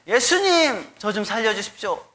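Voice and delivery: high, pleading shout of a drowning man; desperate cry for help. Retold or imitated. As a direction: cry out to Jesus from the water. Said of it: "소리 질러 얘기했습니다".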